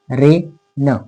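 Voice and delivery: रे न blended back into one word; word joined up. Shown as a demonstration. Teacher rejoins the syllables for students. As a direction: put the syllables back together. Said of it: "ए असा उच्चार".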